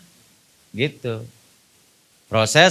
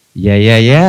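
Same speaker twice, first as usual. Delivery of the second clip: an emphatic, louder, eager yes yes yes; 8 semitones lower, 7 dB louder, slower than usual. Shown as a demonstration. Wife eagerly agrees to husband's hint, emphatic and keen. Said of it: "Nah, itu bala".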